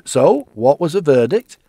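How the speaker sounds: loud, bright, eager ask; a wife bursting to hear the news; eager question. Acted. Evelyn asks eagerly.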